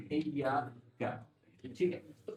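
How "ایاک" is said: ایاک said with the doubled ی pressed; pressed iyyak. Shown as a demonstration. Teacher showing the shadda on iyyak. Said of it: "مجھے press کر کے پڑھو".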